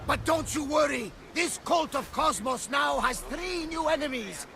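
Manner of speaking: rousing boast. Acted. Captain rallies crew, boasting loudly.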